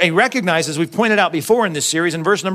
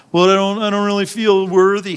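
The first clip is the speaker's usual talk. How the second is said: mock self-doubt; 3 semitones higher than usual. Doubting believer answering God's promise, mock-reluctant. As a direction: imitate a hesitant doubter, pitched up. Mimics believer who feels unworthy.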